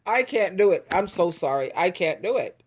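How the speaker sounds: ordinary talk, nothing marked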